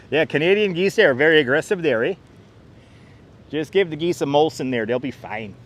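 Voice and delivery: playful Canadian "there, eh" lilt; lightly put-on Canadian accent; mock Canadian accent. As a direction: ham up the Canadian accent a little. Mock Canadian talk about geese.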